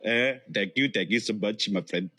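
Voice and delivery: mock Indian accent, thanking; playful imitation of an Indian accent; Indian accent impression. Shown as a demonstration. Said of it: "I can imitate Indian accent".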